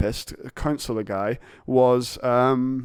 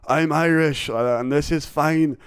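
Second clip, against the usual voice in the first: badly faked Irish accent; half-hearted Irish impression. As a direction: attempt an Irish boss and miss. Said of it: "I can't do an Irish accent".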